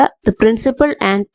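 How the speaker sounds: slow, careful example sentence; slow example read. Shown as a demonstration. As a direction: read it out word by word. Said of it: "എന്ന് പറയുമ്പോ".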